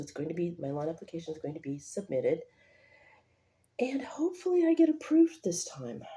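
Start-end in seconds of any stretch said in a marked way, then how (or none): 3.8-6.0 hushed hopeful whisper. Real, not acted. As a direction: whisper it like a secret wish. Hopeful aside whispered to camera.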